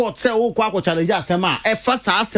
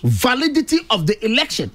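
VALIDITY pitched up and stressed; "validity" underscored with raised pitch; underlined VALIDITY; 5 semitones higher than usual. Real, not acted. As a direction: hit "validity" high, then finish the phrase. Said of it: "Yeah, underlining".

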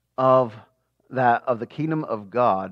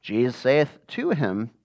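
scripture reading. Acted. Teacher reads scripture aloud to the Bible class, slow and solemn. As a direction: read the verses slowly and solemnly.

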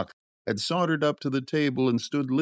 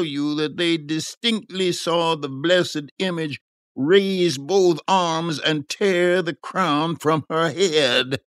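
higher-pitched, emphatic tale-telling; 6 semitones higher than usual. A narrator's reading. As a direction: relay the marvel with relish, stretching key words.

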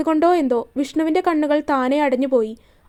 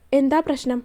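calm gentle voice. Acted. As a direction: ask gently to soothe her. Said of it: "അത്രയും ശാന്തമായ ശബ്ദത്തിൽ".

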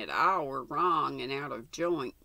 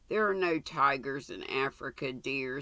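gentle. Acted. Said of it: "said Mother gently".

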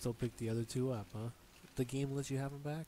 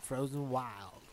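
drawn-out echo; 3 dB louder, much slower than usual. Real, not acted. Echoes the name back, drawn out.

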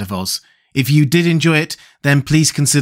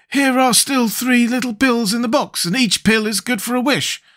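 high-pitched character voice, explaining confidently; Scarecrow, self-assured; 12 semitones higher than usual. Acted. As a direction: lecture the others in a high Scarecrow voice.

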